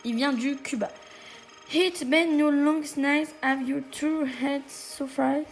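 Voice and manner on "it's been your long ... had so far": French accent. Real, not acted. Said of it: "Désolée de mon accent".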